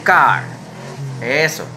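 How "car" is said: "car" said as English "kar"; model English word. Shown as a demonstration. Teacher modeling "car" for kids to repeat, loud. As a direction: say "car" clearly and loudly. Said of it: "diga otra vez".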